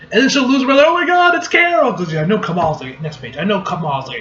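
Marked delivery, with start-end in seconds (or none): 0.9-1.9 very high pretend fan squeal; mock fangirl thrill. Imagined Kamala seeing Carol, mock-excited. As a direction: imitate a starstruck fan.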